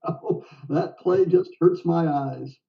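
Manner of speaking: put-on slow, amused repeat of the Texan line in a light Texas accent. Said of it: "in his little Texas accent".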